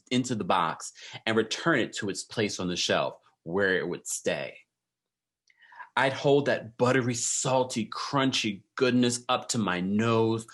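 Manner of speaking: savoring each word, slowing down on the lush details; dramatic reading. Shown as a demonstration. Vlogger reads a singer's memoir excerpt to her viewers, dramatic savoring reading. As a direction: read it like a rich, indulgent memoir. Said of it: "I had to read it like that".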